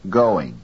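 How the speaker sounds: GOING stressed on GO; stress on first syllable. Shown as a demonstration. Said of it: "first syllable go is louder".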